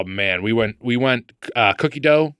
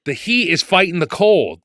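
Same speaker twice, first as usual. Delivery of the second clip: put-on Boston accent. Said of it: "Can you say it in the super thick Boston accent?".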